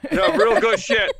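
put-on thick Boston accent, loud; a loose Boston guy voice. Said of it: "a shitty Boston accent".

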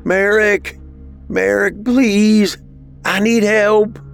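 high, wailing call for help; desperate plea. Acted. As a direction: beg someone behind a locked door. Banging frantically, begging for help.

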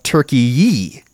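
turkey-yee ending on a long ee vowel; turkey-yee, last syllable like "yee". Shown as a demonstration. Showing the spelled form, turkey-yee with long ee. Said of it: "it's spelled more like".

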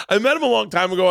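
promo announcer voice. Shown as a demonstration. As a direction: restart it as a proper upbeat promo. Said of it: "we should start this over".

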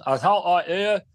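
talking through a wad of tobacco; words mashed around a chaw; chewing tobacco. Shown as a demonstration. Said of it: "giant chaw of tobacco in my mouth".

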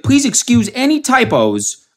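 high-pitched mock dog voice; high, goofy dog caption voice; talking dog. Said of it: "And it was like".

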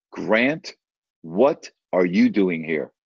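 slow, spaced-out surprised question; retold astonishment. Acquaintance meets narrator in a tiny Swiss town, astonished. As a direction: draw it out, pausing after the name.

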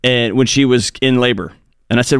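ordinary talk

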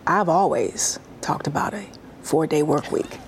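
low breathy near-whisper; soft, sultry, almost whispered. Real, not acted. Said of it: "In that lo-, low sort of sultry voice?".

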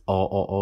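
"Oh" repeated with the vowel way back; pure back "Oh", as in Chicano English. Shown as a demonstration. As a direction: say "Oh" far back, without a glide. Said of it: "that O is way back there".

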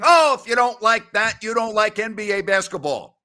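imitating a broadcaster hyping a great play; mock TV announcer. Mocking an NBA announcer's catchphrase on air, hammed-up call. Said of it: "after a great play saying".

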